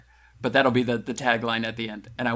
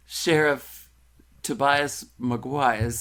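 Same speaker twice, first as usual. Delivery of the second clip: slow announcement; much slower than usual. Shown as a demonstration. Announcing the sheriff's name to the group, slow. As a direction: draw the name out slowly like a movie title. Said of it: "Sheriff Tobias Maguire. I can't even say it".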